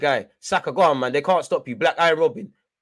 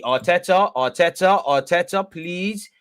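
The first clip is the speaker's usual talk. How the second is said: calling out; 3 semitones higher, 4 dB louder, slower than usual. Real, not acted. Fan pleading with manager on stream.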